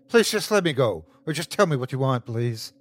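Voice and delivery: frightened captive begging; pleading. Acted. Captive begs the creature to let her go, pleading.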